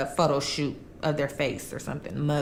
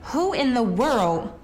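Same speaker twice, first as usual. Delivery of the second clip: higher-pitched, indignant rhetorical questions; outraged disbelief; 4 semitones higher than usual. Real, not acted. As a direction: rise in pitch, appalled that family did this. Teller outraged at grandson's crime.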